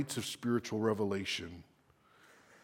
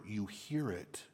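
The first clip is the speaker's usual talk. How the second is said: hushed whisper; 3 semitones lower, 9 dB quieter than usual. Real, not acted. Preacher on the coach's accent, in a whisper. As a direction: drop to a whisper.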